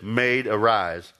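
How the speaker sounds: slow, deliberate command; solemn command. Acted. Jesus to the dead girl, a slow command. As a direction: say it slowly like raising the dead.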